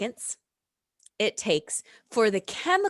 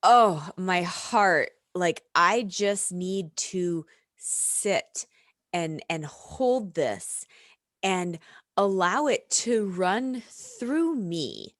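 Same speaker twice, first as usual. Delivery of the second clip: slow, gentle, heartfelt; tender acceptance; slower than usual. Retold or imitated. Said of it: "you can choose to perceive it as".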